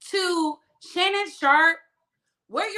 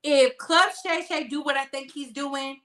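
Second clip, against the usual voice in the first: ordinary talk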